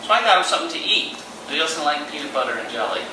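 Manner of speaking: put-on lively storytelling for children; on stage.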